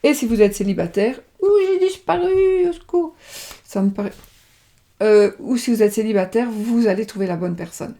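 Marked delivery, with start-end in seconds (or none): 1.4-3.2 mock panic. Imagined single reader panicking.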